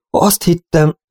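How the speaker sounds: "Azt hittem" stammered out, the start pitched high; stammering. Acted. Old cowboy admitting his lie to Robin, stammering. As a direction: falter over "hittem" like a guilty old man. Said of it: "hebegte a vénykovboly".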